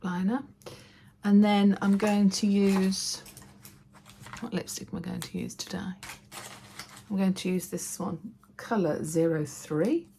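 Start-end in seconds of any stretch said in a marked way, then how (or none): 4.4-8.2 soft whispered musing to herself; whispering. Real, not acted. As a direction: whisper it while thinking. Muttering to self choosing lipstick.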